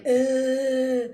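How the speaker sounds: slow, loud zombie moan; zombie groan. Retold or imitated. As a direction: drag it out like a shambling zombie. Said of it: "being like".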